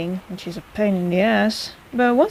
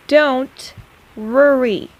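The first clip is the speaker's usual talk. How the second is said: louder, firm don't worry; emphatic reassurance; 3 semitones higher, 5 dB louder, much slower than usual. Acted. Healer firmly telling patient not to worry, louder. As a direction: push the reassurance out.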